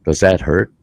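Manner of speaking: rising into a high, indignant retort; mock outrage. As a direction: fire it back at the doctor, climbing in pitch. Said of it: "And they're going".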